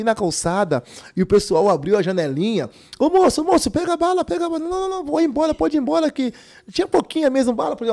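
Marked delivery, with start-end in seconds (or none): 3.0-4.6 high calling voice. Retold or imitated. Passengers calling from windows. 4.6-7.8 high dismissive refusal. Retold or imitated. Refusing candy buyers.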